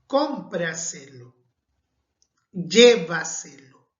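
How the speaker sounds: "Cómpraselo" and "llévaselo" slowly, first syllables "CÓM" and "LLÉ" weighted; slow stress demo. Shown as a demonstration. Teacher models sobresdrújula stress for students, slow and deliberate. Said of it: "este tipo de términos son verbos".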